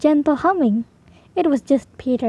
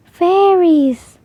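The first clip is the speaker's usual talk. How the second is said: higher, louder, falling gasped word; gasping in wonder; 5 semitones higher, 4 dB louder than usual. Acted. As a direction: breathe it out in amazement. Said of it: "I gasped".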